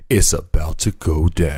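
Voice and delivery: slow, drawn-out mock doom announcement; mock-dramatic warning. Host warns of the end days, mock-dramatic. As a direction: stretch it out like a playful omen.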